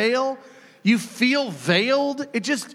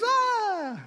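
mock cry; 13 semitones higher, 4 dB quieter than usual. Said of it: "He goes".

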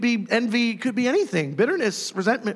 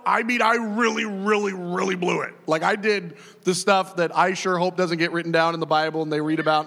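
voicing David; 3 semitones lower than usual. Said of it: "David would cry out".

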